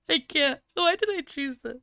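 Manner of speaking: ordinary talk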